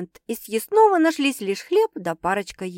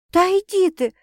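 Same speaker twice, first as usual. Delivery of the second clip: a mild grumble, higher and louder; grumbling; 10 semitones higher, 5 dB louder than usual. A narrator's reading. Sasha lightly grumbling at her sister. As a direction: brush her off, half annoyed. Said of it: "проворчала Саша".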